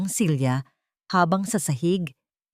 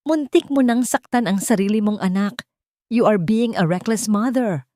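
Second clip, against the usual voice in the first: loud, raised accusing voice; loud reproach; angry scolding; 5 semitones higher, 4 dB louder than usual. Acted. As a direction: publicly shame her as a reckless mother. Mother-in-law berates Thea.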